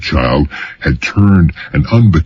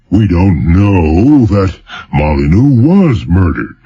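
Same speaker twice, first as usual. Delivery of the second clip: weighty governor; 3 semitones higher than usual. Acted. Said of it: "spoke weightily in his impressively gubernatorial manner".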